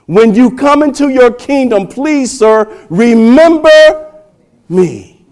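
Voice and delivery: high, pleading preacher's re-enactment; crying out. Retold or imitated. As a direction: plead upward with force, then drop on the last word. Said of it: "was he not crying out for a Savior".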